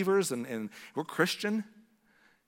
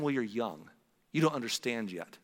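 lower, softer, gently excusing; understanding parent; 6 semitones lower, 4 dB quieter than usual. Acted. Parent looking at a young child, gently understanding. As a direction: let them off softly and low.

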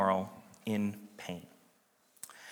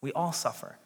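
quieter, leaning on all; softer repeat; 8 dB quieter than usual. Real, not acted. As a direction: let it sink in softly.

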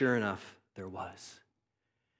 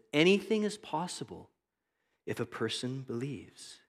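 compassionate; 3 dB quieter than usual. Acted. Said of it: "with eyes of compassion as deep as the ocean".

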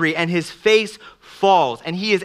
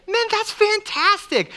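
mock praise; 12 semitones higher than usual. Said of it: "If you say".

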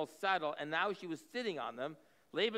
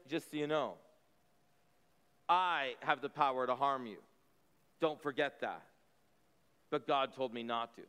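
veiled threat; 5 semitones lower than usual. Retold or imitated. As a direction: lean in and let the threat land lightly. Preacher voices Laban's veiled threat.

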